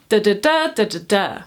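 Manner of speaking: two beats of "Da da da"; rhythm demo. Shown as a demonstration. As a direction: chant "Da da da, da da da" in two matching feet. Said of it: "and dimeter, meaning two".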